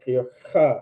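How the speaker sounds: "cha" with a scraping throat sound; "cha" scratched from the back of the throat; throaty cha. Shown as a demonstration. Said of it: "coughing up that loogie sound".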